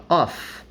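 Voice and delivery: "off" said with a clear F, not a V; off with an F sound. Shown as a demonstration. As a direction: say "off" ending in a crisp F. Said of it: "aqui não tem som de F".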